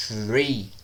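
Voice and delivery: "three" with a prolonged TH hiss before the r; tongue-between-teeth TH. Shown as a demonstration. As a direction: hold the TH, then release into "three". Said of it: "coloca a sua língua entre os seus dentes".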